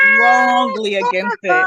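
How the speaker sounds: slow, loud, high "strongly against it"; drawn-out shouted repeat; emphatic shout. Retold or imitated. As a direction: belt out "against" to drive it home. Repeats phrase, second time shouted.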